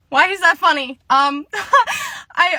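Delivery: high, hurt customer-service voice; nervous high-pitched question; flustered employee. Acted. Employee reacts to being laughed at.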